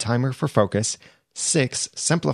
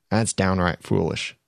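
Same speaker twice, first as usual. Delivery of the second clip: put-on Texas accent; 3 semitones lower than usual. Podcaster slipping into a light Texas accent while scolding time wasters. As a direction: let a hint of Texas colour the words. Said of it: "a Texas accent came out".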